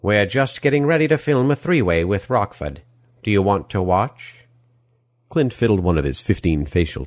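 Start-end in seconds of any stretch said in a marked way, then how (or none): 0.0-4.5 put-on smarmy European movie-villain accent; oily villain accent, gushing welcome; Die Hard villain accent. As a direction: greet them in an action-film villain's foreign accent. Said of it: "accent sounding like the villain of a Die Hard film".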